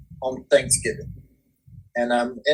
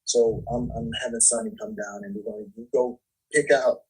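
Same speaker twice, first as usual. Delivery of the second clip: much softer, trailing under the breath; too quiet; 3 semitones lower, 7 dB quieter than usual. Real, not acted. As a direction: drop the level as if talking to yourself. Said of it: "you gotta talk louder".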